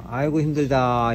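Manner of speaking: slow, droopy, worn-out sigh; limp and tired. Shown as a demonstration. Instructor shows trainee a limp, weary sigh. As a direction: let it sag like you're exhausted. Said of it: "축 늘어지는 듯한 느낌으로".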